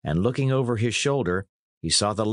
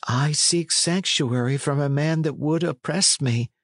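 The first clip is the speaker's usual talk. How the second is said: lightly voiced earnest lad, higher; a hint of a hunted youth; John Matcham; 6 semitones higher than usual. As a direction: answer earnestly in a raised voice. Plays lad explaining his flight.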